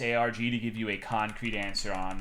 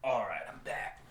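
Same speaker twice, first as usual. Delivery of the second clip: 1 hushed return; 3 semitones lower, 8 dB quieter than usual. Real, not acted. Returning to mic quietly.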